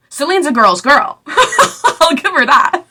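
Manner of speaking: laughing through the words, slow; amused slow laughing praise. Real, not acted. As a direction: chuckle as you give the credit.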